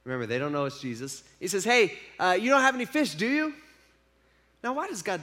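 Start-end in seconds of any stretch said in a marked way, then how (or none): 1.6-3.5 teasing question. Retold or imitated. Jesus teasingly asks fishermen about their catch, rising higher. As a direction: question climbing higher to the end.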